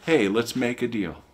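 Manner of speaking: breezy mock bargain with God. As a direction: toss God a casual deal. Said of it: "Are you saying".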